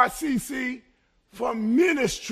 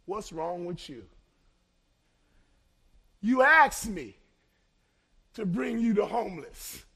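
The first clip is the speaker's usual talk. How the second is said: voice of God. Retold or imitated. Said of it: "I heard God speak to me".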